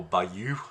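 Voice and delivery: "bayou" said slowly with the stress on "you"; "bayou" stressed on its second syllable. Shown as a demonstration. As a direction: lean on the end of "bayou". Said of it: "with the accent on the, the second syllable".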